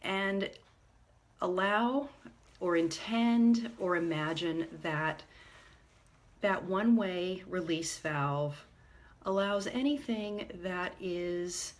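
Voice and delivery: calm meditation guide, unhurried with long pauses; guided meditation. Real, not acted. Meditation leader guiding listeners to ground themselves, calm and measured. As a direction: lead them gently inward, leaving space between phrases.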